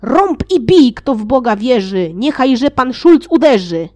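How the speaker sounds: loud, high rallying shout; battle cry. Acted. Wicek at the back of the spear shouting for Schulz to strike. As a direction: urge the leader to strike first. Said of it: "Zawołał więc".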